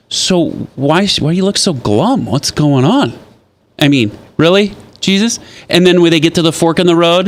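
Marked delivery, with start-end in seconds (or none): 0.1-5.4 higher, teasing questions; playful Jesus. Retold or imitated. Jesus teasing the glum disciples, higher and playful. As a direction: tease them with feigned innocence. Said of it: "And he says".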